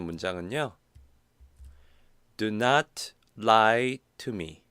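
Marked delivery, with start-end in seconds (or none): 2.4-4.6 slow model sentence. Shown as a demonstration. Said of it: "조금 쪼개서 이야기하면 조금 더 강조를".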